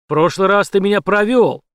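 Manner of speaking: громко и выше; бросает с обидой; злой упрёк. A narrator's reading. Злой Шекет. (злой упрёк)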